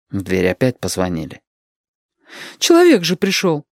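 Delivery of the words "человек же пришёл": high, eager cry; exclaiming. Acted. Lidka exclaims to Shut that someone came, high and eager. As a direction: call out eagerly. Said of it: "воскликнула Лидка".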